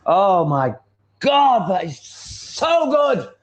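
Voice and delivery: high, drawn-out thrilled exclamation; delighted amazement. Real, not acted. Streamer reacting to finding a new setting, delighted amazement. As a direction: gush it, stretching the last words.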